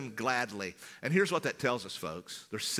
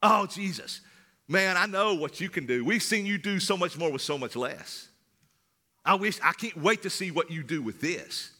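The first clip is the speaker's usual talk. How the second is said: eager anticipation; 3 semitones higher than usual. Pretend. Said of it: "with anticipation".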